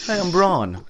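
wrestler intro. Retold or imitated. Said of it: "his music kicks off".

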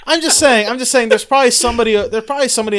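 laughing. Real, not acted. Defends accent, laughing.

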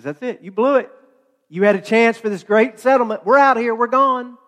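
a touch of a huffy tiny flea; fed-up flea. Acted. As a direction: storm out with a lightly voiced huff.

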